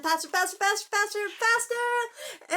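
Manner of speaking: building excitement. Acted. Urging dogs to run.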